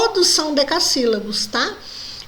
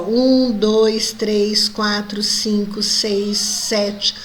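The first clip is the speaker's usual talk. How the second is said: counting poetic syllables; 3 semitones lower, much slower than usual. Shown as a demonstration. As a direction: tick off each syllable one by one. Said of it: "ó".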